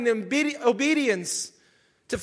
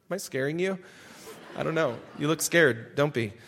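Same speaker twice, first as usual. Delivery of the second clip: low, softer aside; quiet aside; 9 semitones lower, 6 dB quieter, faster than usual. Real, not acted. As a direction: drop right down, checking on the listeners.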